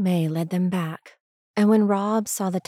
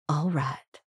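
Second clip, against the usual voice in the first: soft, lower reassurance; comforting father; 3 semitones lower, 5 dB quieter than usual. A narrator's reading. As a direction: soothe your son softly. Father comforts crying son.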